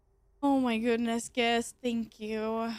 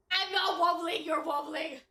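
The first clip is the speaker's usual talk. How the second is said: high laughing yell, breaking into laughter; giggly protest, much higher; laughing shout; 4 semitones higher than usual. Real, not acted. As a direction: shout it through a laugh at yourself. Laughing while squatting and wobbling.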